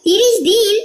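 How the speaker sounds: astonished at the thirty days; surprised. Acted. Wife astonished at news.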